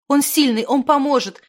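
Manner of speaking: high, loud, urgent voice; urgent hope. A narrator's reading. Zimana assures them the wizard will help, urgently. Zimana urges a trip to the healer.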